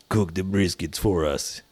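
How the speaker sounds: put-on slow heavy Russian accent; menacing Russian captor. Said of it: "Was that a Russian accent?".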